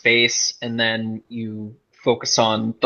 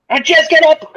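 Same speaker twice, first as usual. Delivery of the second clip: much higher and louder, dragged-out shouted command; furious yell; 7 dB louder than usual. Acted. Yelling at the dazed woman lying in the street, furious. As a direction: scream her back to her senses. Character yells at dazed friend.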